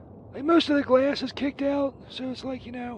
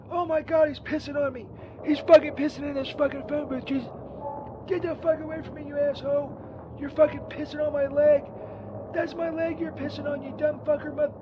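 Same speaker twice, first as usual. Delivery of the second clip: disgusted outrage; 3 semitones higher than usual. Acted. Being pissed on mid-call.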